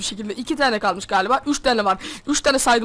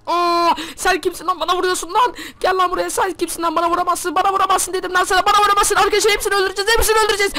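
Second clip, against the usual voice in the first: battle shout; 5 semitones higher than usual. Acted. Savaşta bağırıyor.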